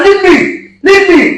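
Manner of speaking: high-pitched, urgent protest; alarmed protest. Real, not acted. Pranked man fending her off.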